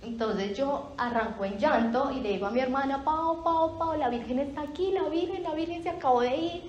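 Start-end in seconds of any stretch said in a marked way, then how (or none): 3.0-6.6 excited calling out. Retold or imitated. Llamando a su hermana emocionada.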